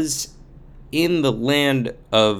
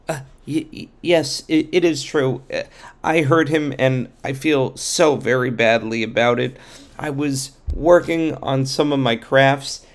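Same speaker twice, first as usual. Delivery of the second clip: higher, stuttering apologetic voice; nervous stammering craftsman; 3 semitones higher than usual. Acted.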